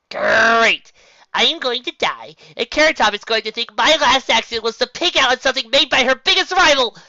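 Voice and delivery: high, loud frantic rant; panicked rant. A narrator's reading. Tracy face first in pie, ranting in panic. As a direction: spill it out in a panic.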